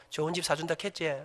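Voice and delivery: soft, low, laughing aside into his ear; whispered in the ear. Retold or imitated. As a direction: murmur it slyly right at his ear. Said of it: "귀에다 대고 말합니다". (아들 귀에 대고 웃으며 낮게 속삭이듯)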